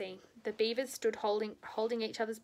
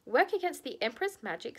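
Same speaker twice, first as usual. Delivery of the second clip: frowning disbelief; 5 semitones higher, 4 dB louder than usual. Acted. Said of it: "with something like a frown on his face".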